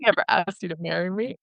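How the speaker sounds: retold denial after an anxious laugh; nervous laughing denial. Boyfriend denying the proposal to Lily, nervously laughing. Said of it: "he's laughing ... really anxious and nervous".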